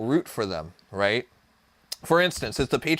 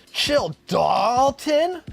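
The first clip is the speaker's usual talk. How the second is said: loud slow call-out; shout; 8 semitones higher, 4 dB louder, much slower than usual. Real, not acted. Yelling at Dalton to calm down, loud and drawn out. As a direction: bark it across the room, slow. Streamer yelling at someone off-screen.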